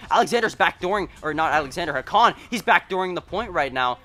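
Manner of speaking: ordinary delivery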